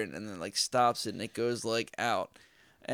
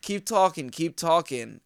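retold taunt; 4 semitones higher, 5 dB louder than usual. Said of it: "I was like".

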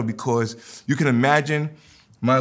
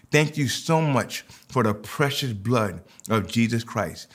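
led prayer. Acted. Leads congregation in communion prayer.

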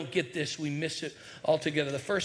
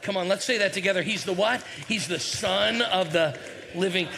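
call for response; 2 semitones higher, 4 dB louder than usual. Real, not acted. Preacher prompts congregation to answer.

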